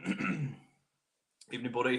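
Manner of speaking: a slow, lazy "Evening, buddy"; drawn-out greeting. Real, not acted. Greeting a viewer.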